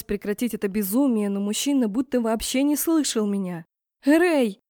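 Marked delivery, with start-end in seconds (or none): 4.0-4.6 squeaked name, high and loud; a sudden high yelp of his name. A narrator's reading. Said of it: "пискнула я". (пискнула высоко и громко)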